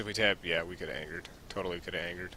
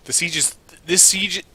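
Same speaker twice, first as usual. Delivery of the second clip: loud insistent; 10 semitones higher, 14 dB louder than usual. Real, not acted. Heated card-evaluation argument.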